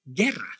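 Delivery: guerra with silent u, GEH-rra with rolled r; Spanish guerra. Shown as a demonstration. Spanish teacher modelling guerra with silent u. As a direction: say guerra with a hard g and no u sound. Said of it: "How do you pronounce these two words".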